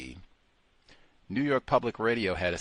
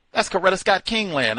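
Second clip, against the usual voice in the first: much higher and louder, Scott punched; louder emphatic; 10 semitones higher, 7 dB louder than usual. Shown as a demonstration. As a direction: ram it home, pitched way up. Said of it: "repeated louder".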